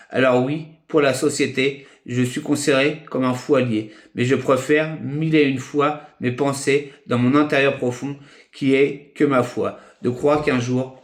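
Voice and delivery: measured phrases with pauses between them; poem recitation. Acted. Poet addressing friends on love and humanity, measured recitation.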